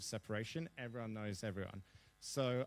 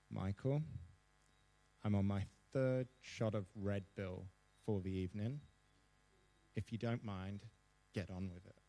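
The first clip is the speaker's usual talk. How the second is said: a prime minister calmly telling a student to hurry up; 2 semitones lower than usual. Retold or imitated. Coolly tells the student to get on with it, calm and unhurried. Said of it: "she very calmly says".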